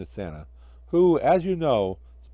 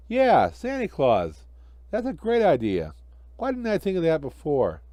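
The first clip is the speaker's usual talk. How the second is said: cheerful snowman voice, a bit higher; lightly voiced jolly snowman; Frosty; 4 semitones higher than usual.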